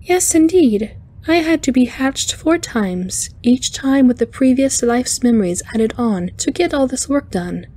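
high, lively chiming voice; humorous arachnoid engineer. A narrator's reading. Alien explaining her past lives to engineer, high and good-humoured. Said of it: "was a humorous look".

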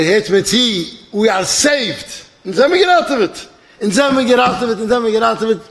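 high, excited mock yelling; retold announcement shout. Pilot announcing the rescue to passengers, retold shout. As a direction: imitate calling good news out to a crowd. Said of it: "der Pilot hat uns schreien".

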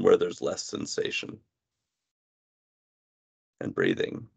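measured meditation guidance with long pauses; guided body scan. Real, not acted. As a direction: guide the listener gently into body awareness, pausing between phrases. Leads a body scan exercise.

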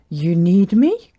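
lightly acted astonished question; mild gasp. Little yak learning she is needed, mild astonishment. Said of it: "Gertie gasped".

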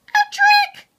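very high, loud snarled outburst; outraged snarl. A narrator's reading. Hector accuses the hamsters of cheating, loud snarl. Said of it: "Hector snarled".

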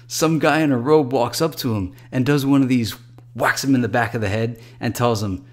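lively, excited bro retelling his night. Acted. Jeff telling his bro about the nightclub, excited. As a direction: gush it out like an excited buddy. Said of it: "He said excitedly".

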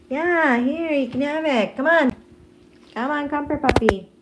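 high-pitched pet-owner call; coaxing a puppy. Real, not acted. Owner offering Casper a toy, coaxing in a high voice. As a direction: coax the puppy over in a high voice.

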